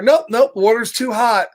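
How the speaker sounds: hammed-up yelp at hot water; mock alarmed. Pigeon dipping his wing in hot water, mock alarmed. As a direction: pull back with a playful yelp.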